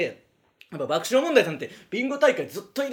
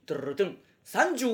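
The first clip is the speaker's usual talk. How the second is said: imitated drumroll. Mimicking the robot's drumroll before a number. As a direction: roll the tongue like a little drum. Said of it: "急に変な言い方する時もあって".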